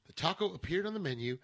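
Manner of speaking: deadpan NPR narration; NPR style. Acted. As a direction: read it like a serious radio essay. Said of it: "N P R style?".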